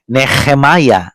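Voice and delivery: Nehemiah slowed, with a throaty kh sound in the middle; guttural h. Shown as a demonstration. Teacher spelling out Nehemiah to show the Hebrew het. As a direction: drag Nehemiah out, scraping the h from the throat. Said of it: "the he there is het".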